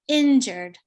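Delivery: "injured" stressed on the first syllable. Shown as a demonstration. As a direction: say "injured" with the weight on "in". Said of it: "normally on the first syllable".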